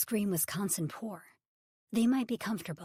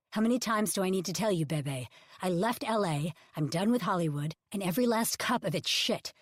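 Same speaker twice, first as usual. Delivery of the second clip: louder, fast, impatient retort; impatient snap; 5 dB louder than usual. Acted. Ridge telling Bebe he has left Hollywood, loud and impatient. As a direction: done with her, and saying so.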